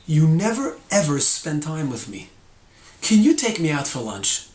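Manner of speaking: accusing, leaning on NEVER EVER; blaming. Shown as a demonstration. Speaker telling a friend off about lunch, blaming. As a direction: demo of a negative, blaming complaint. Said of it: "sounds like I'm blaming".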